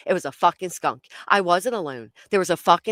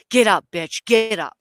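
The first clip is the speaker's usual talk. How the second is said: louder, punchy order to herself; urgent self-command; 2 semitones higher, 6 dB louder than usual. Retold or imitated. Runner urging herself away from the skunk, urgent self-command. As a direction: push yourself to move.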